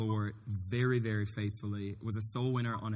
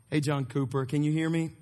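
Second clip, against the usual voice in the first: raised voice, checking the line; calling into speakerphone; 4 semitones higher, 4 dB louder than usual. Real, not acted. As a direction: call out so the phone picks it up.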